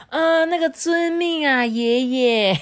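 a touch of mock-humble deference; bow and obey the little grandpa; respectful reply. A narrator's reading. Deer parents humbly obeying the rabbit, mildly mock-respectful. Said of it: "恭敬的回答".

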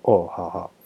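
a small startled okay; meek placating. Retold or imitated. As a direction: back off meekly. Boss backing down, placating.

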